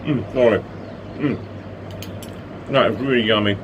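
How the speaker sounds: talking through a mouthful of food; mouth full. Real, not acted. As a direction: mouth full while chewing. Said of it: "talking with my mouth full".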